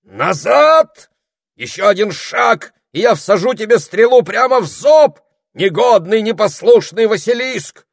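squeaky high wizard yelling threats; shouting old wizard. A narrator's reading. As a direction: threaten the monster at the top of the voice. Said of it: "прокричала фигура".

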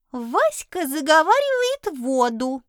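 slow, proud creature voice; proud familiar. Acted. The little familiar proudly tells the girl about Vasya. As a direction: announce it like a boast. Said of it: "горделиво сообщил чудик".

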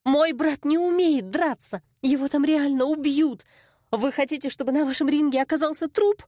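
a sister protesting the deadly fight; panicked protest. A narrator's reading. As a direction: argue in alarm for his life.

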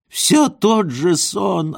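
put-on high, slow despairing old man; old man's wail. A narrator's reading. Old man wailing at his dream. (высокий, медленный старческий вопль)

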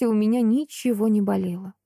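plain reading voice

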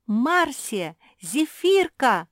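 loud, high shout of names; calling out. A narrator's reading. Mulya shouts for her sisters in alarm. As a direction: yell across the house. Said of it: "раздался крик Мули".

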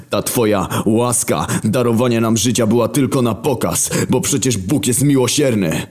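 mildly voiced war horseman snapping back. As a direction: talk back to the Creator bluntly. War accuses God.

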